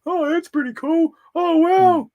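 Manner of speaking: high, loud excited customer; eager fanboy voice. Retold or imitated. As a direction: squeal it like a thrilled fan. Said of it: "I'd always be saying to him".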